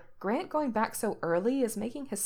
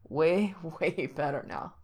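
breathless; 2 semitones lower, slower than usual. A narrator's reading. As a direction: gasp it out between breaths. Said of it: "Frank answers breathlessly".

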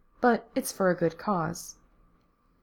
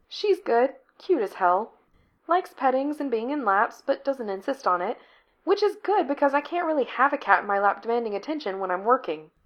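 Becky's voice; 6 semitones higher than usual. Acted. Narrator voices Becky at length.

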